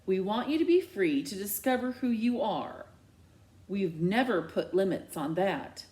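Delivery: a hint of forced calm; measured, patient dad; reasonable. Dad trying to sound reasonable with his daughter. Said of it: "tries to sound reasonable".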